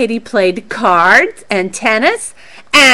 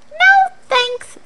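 Charlie declining. Acted. Charlie turns down monkeys.

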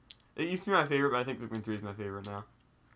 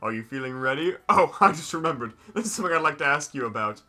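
put-on louder, brighter old man voice; character voice; 3 semitones higher, 6 dB louder than usual. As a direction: voice the friendly villager. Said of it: "I'll do a voice for this guy".

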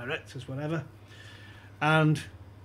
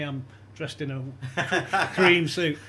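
laughing through it; 4 dB louder, much slower than usual. Retold or imitated. Mocking the secret man's look.

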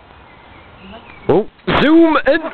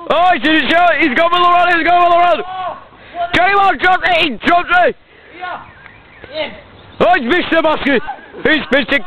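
high, breathless-style running commentary; excited play-by-play; 4 semitones higher, much faster than usual. Pretend. Commentator following a dropped catch and runs, excited play-by-play. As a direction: call every move as it happens, excited.

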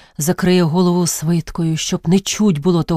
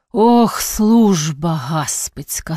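despairing outcry; much slower than usual. Acted. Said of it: "скрикнув він".

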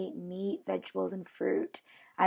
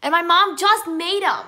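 excited; 8 semitones higher, 10 dB louder than usual. Real, not acted. Excited reveal of earrings.

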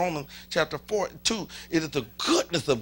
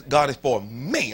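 slow phrase, louder, weight on ME; emphasis on me; 4 semitones lower, 6 dB louder than usual. Shown as a demonstration. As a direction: demonstrate it leaning on the last word "me". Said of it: "put an emphasis on me".

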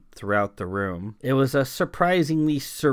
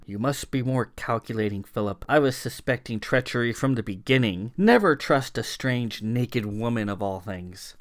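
scolding. Acted. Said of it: "Thomasina scolded her husband".

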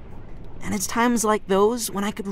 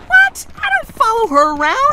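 flustered; 13 semitones higher, 8 dB louder than usual. Acted. Flustered denial.

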